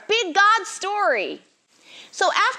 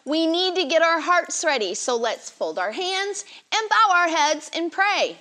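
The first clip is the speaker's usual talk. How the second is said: sweet patient sunday school teacher. Acted. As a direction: gently coax little children to settle. Leads kids before Bible story.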